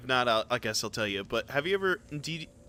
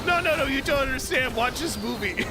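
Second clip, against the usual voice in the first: retold pleading mom; 11 semitones higher than usual. Mom pleading with angry dad.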